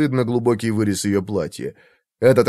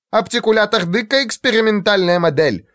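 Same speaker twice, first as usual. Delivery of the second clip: flaring up; 9 semitones higher than usual. Acted. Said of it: "вспылил толстяк".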